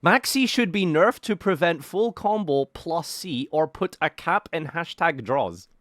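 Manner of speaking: slow, mocking zoomer read; ironic zoomer. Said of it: "Why is this guy talking like an absolute zoomer".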